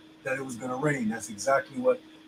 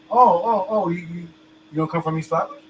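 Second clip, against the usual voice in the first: high, mock-shocked gasp of a question; mock surprise, pitched up, at someone's hometown; mock shocked questioner; 4 semitones higher, 3 dB louder than usual. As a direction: ham up the fake surprise. Mocking a confused questioner.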